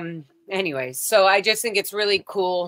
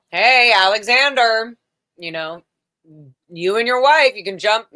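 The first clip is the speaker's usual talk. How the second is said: teasing call-out; 6 dB louder than usual. Retold or imitated. Joking call to security guard.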